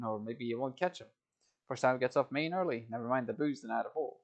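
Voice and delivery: a hint of a London Cockney carter, friendly; Cockney accent. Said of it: "And so all over the place, that accent".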